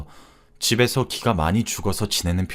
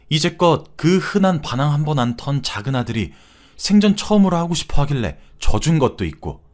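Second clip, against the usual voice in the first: lightly voiced reproachful mother, pitch raised; stern mother-in-law; 3 semitones higher than usual. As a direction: reason firmly with a daughter-in-law, a touch of reproach. (며느리를 타이르는 시어머니 말투로 살짝 높게)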